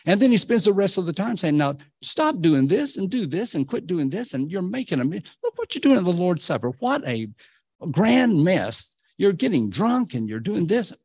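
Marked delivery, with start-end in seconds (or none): 1.6-10.9 preacher voicing Paul's exasperated correction; scolding apostle. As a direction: play Paul ticking off a messy church. Voices Paul scolding the church.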